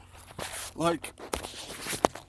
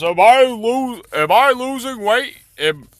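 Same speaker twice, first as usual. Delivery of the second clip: much higher, louder anxious pleading; hopeful patient asking, much higher; anxious fat man; 11 semitones higher, 8 dB louder than usual. Acted. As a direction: plead it high and nervous like the burning patient. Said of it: "And he says".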